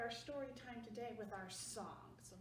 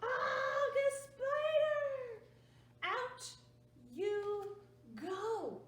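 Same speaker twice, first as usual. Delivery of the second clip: high, loud, slow scream of a spider; hammed-up shriek at a spider; startled shout; 7 semitones higher, 6 dB louder, much slower than usual. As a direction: yell at the bug to get out. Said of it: "She's like".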